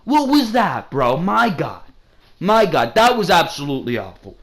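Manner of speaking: retold outrage at the screen; exasperated disbelief. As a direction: replay the moment you couldn't believe what you saw. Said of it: "where I was just like".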